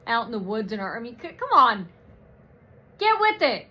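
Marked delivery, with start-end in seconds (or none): 1.3-3.7 exasperated. Real, not acted. Exasperated rant at viewers.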